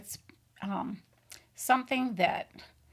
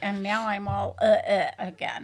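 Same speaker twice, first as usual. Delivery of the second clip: squeaky voice. Real, not acted. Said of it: "excuse my squeaky voice".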